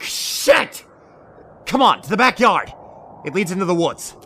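loud, alarmed, urging escape; urgent shout. Acted. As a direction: shout to run for the woods. Sudden danger, urging escape.

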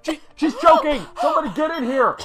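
high, loud alarmed yelling; panicked shout. Acted. Man shouting for help as his partner chokes.

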